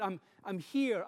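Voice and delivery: light, tender I'm here; gentle reassurance. Shown as a demonstration. Parent repeating comfort to a child in the dark, gentle. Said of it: "often we repeat it".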